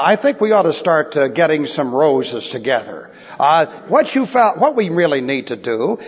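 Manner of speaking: mock-earnest officer handing out silly orders; sarcasm. Officer shaming his men with silly jobs, mock-serious sarcasm. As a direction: imitate an officer, understated sarcasm. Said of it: "Now that's sarcasm".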